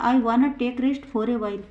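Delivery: slow, clear example for students; teacher reading it out slowly to the class; slow model sentence. Shown as a demonstration. Teacher models the sentence, slow and clear. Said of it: "दूसरा example है".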